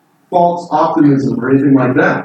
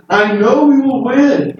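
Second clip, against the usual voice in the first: confident eagerness; 7 semitones higher, slower than usual. Retold or imitated. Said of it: "He says".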